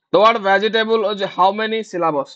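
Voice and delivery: very slow, every word spaced; slow dictation. Shown as a demonstration. Teacher dictating the vegetable question to students. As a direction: read it out slowly for writing. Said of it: "teacher dictating a question".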